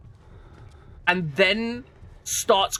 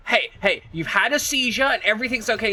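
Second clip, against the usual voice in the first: a hint of a calm paramedic reassuring; lightly voiced medic, slightly higher; imitating a paramedic; 4 semitones higher than usual. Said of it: "the EMT just going".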